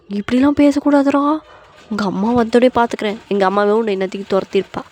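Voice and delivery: acted huffy scolding; affronted aunt. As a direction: warn him indignantly. Aunt threatens nephew back.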